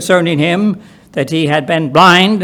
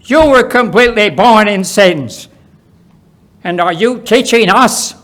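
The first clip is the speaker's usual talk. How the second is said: higher, louder outraged retort; how dare he lecture them; indignant Pharisees; 5 semitones higher, 5 dB louder than usual. Acted. Pharisees outraged at being taught, higher and louder. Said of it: "They answered and said".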